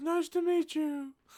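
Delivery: very high, creepy, spooky voice. Retelling a scene where a scary figure greets a visitor: imitating Teddy Perkins' creepy voice. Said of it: "he's also doing this voice where".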